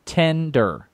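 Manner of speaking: "Tender" with a clear short e; tender for tin. Real, not acted. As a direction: says "Tender" with the e of ten. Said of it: "'cause it sounded weird".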